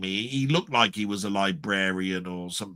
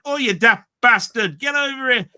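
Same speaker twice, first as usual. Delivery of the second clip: higher and louder mock yell at someone; mock shout; 12 semitones higher, 7 dB louder than usual. Ordinary people yelling at a mate to come over, mock shout. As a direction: bellow it like a rough bloke. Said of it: "other people would be saying".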